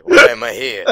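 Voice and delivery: mock confused voice. Voicing confused wrestler.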